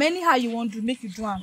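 resigned. Acted. Girlfriend refusing to abort, quietly resigned. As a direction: let the fight drain out of you. Pregnant girlfriend gives up arguing.

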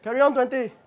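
loud parade-ground order; shouted command. Acted. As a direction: bark the command. Sergeant barking an order.

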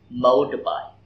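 Motorbike, first syllable MO stressed; Motorbike, hit MO. Shown as a demonstration. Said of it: "phát âm đúng trọng âm từ". (nhấn âm MO trong Motorbike)

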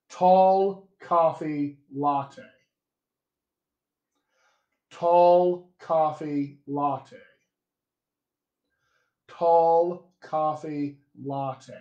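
"Tall coffee latte." very slow, each vowel drawn out; own-accent vowel demo. Shown as a demonstration. Coach letting learners detect vowel differences, slow careful "Tall coffee latte.". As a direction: read "Tall coffee latte." slowly, word by word. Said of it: "In my accent".

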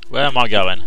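startled, calling out lost. Real, not acted. Player lost in the big room, calling out loud. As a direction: say it loud and rattled.

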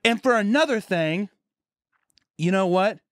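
high, emphatic mock rant; ranting teacher. Health teacher piling on another point to class, mock ranting. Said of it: "she ranted and raved".

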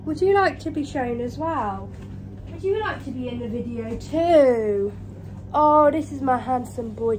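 lilting coo to the cat; affectionate pet talk. Real, not acted. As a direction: fuss over him with swooping tune. Cooing to her cat.

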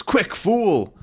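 voiced villain. Villain quoted.

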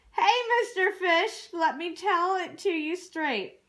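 lightly acted telling-off, strong on the opening; mild scolding. Octopus tells sulking fish straight, mildly scolding.

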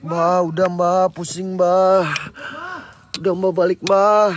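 loud call across; shouting. Real, not acted. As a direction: yell for him to come back. Calling out to Mbah.

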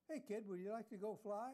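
retold aviator calling a kid over. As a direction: call out to the kid from the doorway. Aviator calls out from the door.

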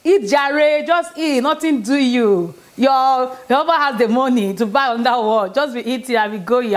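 husband's teasing encouragement. Retold or imitated.

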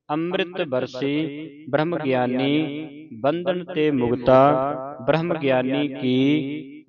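slow, drawn-out line endings; scripture recitation. Shown as a demonstration. Teacher recites Sukhmani Sahib for the congregation, slow measured recitation. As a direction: recite slowly, holding the long vowels.

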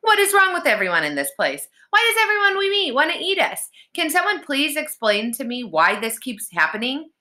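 worked-up, high-pitched complaint; exasperated rant. A narrator's reading. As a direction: pitch climbing in outrage. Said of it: "steam was practically coming from his ears".

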